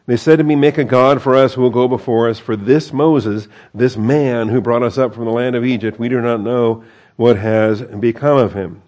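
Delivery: quoting the people with mild scorn; scornful, dismissive. Acted. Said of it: "Very scornful, very dismissive".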